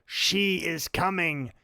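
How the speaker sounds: slow, drawn out and ominous; slow eerie alien line. Retold or imitated. Quoting the movie, slow eerie line. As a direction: deliver it slow like a possessed man. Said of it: "And then he says".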